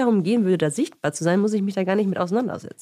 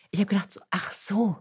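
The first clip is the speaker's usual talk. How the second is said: whispering. Retold or imitated. Sudden realization, whispered.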